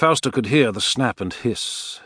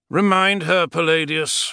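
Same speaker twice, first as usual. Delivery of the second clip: weary, worn-out voice, higher in pitch; 8 semitones higher than usual. The Emperor speaks to Palladius in a weary tone. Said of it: "the Emperor said in a weary tone".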